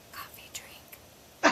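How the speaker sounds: slow breathy whisper, no voice; a son whispering his wish for a coffee drink. Retold or imitated. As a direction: sneak the words out in a slow whisper. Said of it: "and he whispers".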